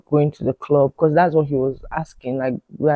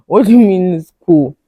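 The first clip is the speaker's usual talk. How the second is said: incredulous; 3 semitones higher, 9 dB louder than usual. Real, not acted. Incredulous, laughing.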